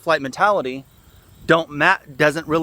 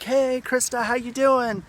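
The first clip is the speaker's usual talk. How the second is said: passerby greeting; 10 semitones higher, slower than usual. Retold or imitated. Stranger calling out from passing car.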